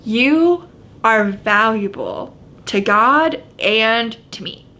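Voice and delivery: slow, earnest and tender; sincere reassurance. Real, not acted. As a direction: speak it straight to their heart. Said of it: "I want you to hear this".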